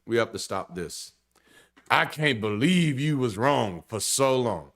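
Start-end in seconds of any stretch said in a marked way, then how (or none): 1.9-4.7 slow, drawn-out disbelieving mock voice; mock incredulity. Mocking a person who pretends shock at someone being wrong, slow and incredulous. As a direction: mimic someone acting shocked that people were wrong.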